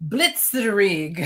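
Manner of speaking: Blitzkrieg with a light German accent. Shown as a demonstration. Panelist saying the German term in a light German accent. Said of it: "if I can say it in my German accent".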